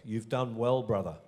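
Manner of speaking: lightly attempted Welsh accent; a hint of Welsh in the voice. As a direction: try a mild Welsh lilt. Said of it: "That was said with a Welsh accent".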